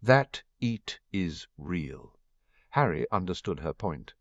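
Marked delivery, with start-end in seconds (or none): 0.0-2.2 put-on French accent. Narrator voices Fleur.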